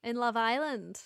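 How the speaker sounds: American accent, leaning on the I; attempted American accent. Shown as a demonstration. Podcaster showing how Americans say it, attempted American accent. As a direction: try American, stressing the I of Island. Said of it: "I need to get myself American accent".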